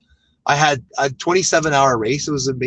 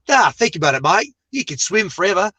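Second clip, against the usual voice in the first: imitated Australian accent, pitched up; Nick Mallet; 5 semitones higher than usual. Friend coaxing him into Ultraman, imitated Australian accent. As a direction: put on a higher Australian voice. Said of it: "I won't keep going with the Australian accent".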